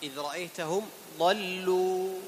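slow measured recitation; Quran recitation. Shown as a demonstration. Teacher recites for students to repeat. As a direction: chant the verse unhurriedly. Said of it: "recites verse once more".

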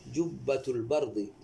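"جبة" said with a held, doubled b. Shown as a demonstration. Teacher models جبة for the student, b firmly doubled. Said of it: "شدد".

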